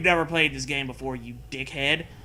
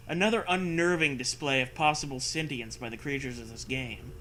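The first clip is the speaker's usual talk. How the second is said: steady read-aloud narrator voice; story narration. Acted. Reads the story text aloud.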